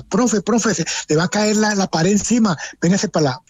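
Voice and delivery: retold shout. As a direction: imitate a colleague calling out a warning. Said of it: "el doctor me gritaba".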